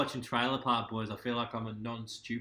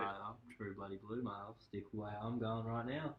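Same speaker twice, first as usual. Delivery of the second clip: softer, hammed-up Australian slang accent; broad Aussie accent; 6 dB quieter than usual. Shown as a demonstration. Insisting to a friend it's Australian, broad Aussie accent. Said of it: "Do an Aussie accent, please".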